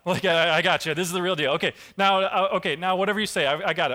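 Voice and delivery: hammed-up delight at the real deal; excited Gideon. Gideon reacting to the burning offering, excited and laughing. Gideon thrilled after the sign.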